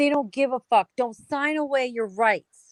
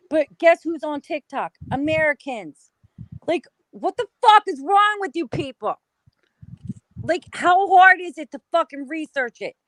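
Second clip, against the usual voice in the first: exasperated rant; 5 semitones higher, 4 dB louder than usual. Real, not acted.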